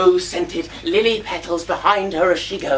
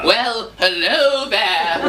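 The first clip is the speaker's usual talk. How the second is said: slow, stretched copy of a suave hello; drawn-out pupil's imitation; attempted put-on voice; much slower than usual. Shown as a demonstration. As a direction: labour through the charmer's greeting. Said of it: "try speaking in a voice like this".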